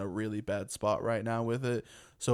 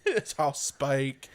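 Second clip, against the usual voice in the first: slow, laughing imitation of a mangled British accent; mimicked bad British accent; 3 semitones higher, 4 dB louder than usual. Mocking co-host's claim, imitated bad British accent.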